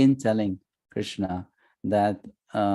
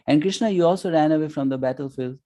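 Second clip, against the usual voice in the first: quick, higher playful jab at a friend; joking tease; 6 semitones higher than usual. Retold or imitated. Arjuna teasing his friend Krishna in public, playful jab. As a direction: rib him like an old buddy. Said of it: "just in joking manner".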